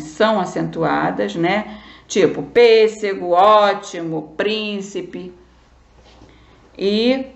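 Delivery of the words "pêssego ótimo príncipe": pêssego, ótimo, príncipe slowly, first syllables stretched; stress on first syllable. Shown as a demonstration. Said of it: "chamar pra você lembrar".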